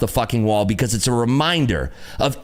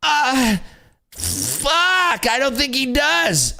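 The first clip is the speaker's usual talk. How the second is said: much higher, dopey mock voice; mocking a dumb follower; 11 semitones higher, much slower than usual. Streamer mocking a follower caught without an answer, dopey and much higher. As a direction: sound caught out and clueless. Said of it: "Does he show you a broker statement?".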